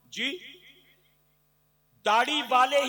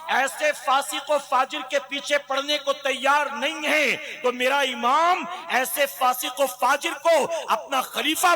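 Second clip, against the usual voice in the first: fiery preaching. Acted. Preacher building to full force.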